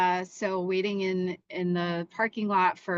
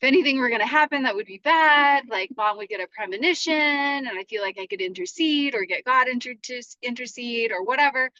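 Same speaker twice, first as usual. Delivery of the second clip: retold anxious thoughts. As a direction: spill the panic out quickly. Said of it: "anxiety came in".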